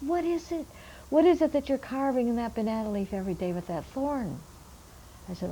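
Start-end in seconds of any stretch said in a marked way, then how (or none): 0.0-4.4 put-on much higher, curious old elder's voice; old man questioning. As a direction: ask like a puzzled old elder. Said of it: "He said".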